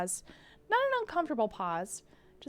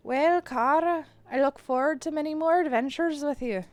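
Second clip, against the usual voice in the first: put-on Irish accent; 3 semitones higher than usual. McMurphy looking forward to adventures, Irish accent. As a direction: attempt a fond Irish accent. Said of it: "maybe my Irish accent will get better".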